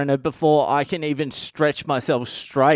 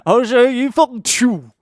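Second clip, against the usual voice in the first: much higher, louder squeaky mimic; mock squeal; 9 semitones higher, 6 dB louder than usual. Mocking the mate's boast as he drops, high squeal. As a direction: squeal it like the falling mate. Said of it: "He's like".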